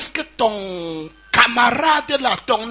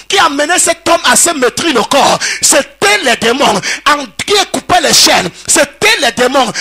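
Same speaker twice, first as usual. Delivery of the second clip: steady full-voiced sermon delivery; preaching. Preacher to the congregation at the conference, preaching. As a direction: preach it out to the hall.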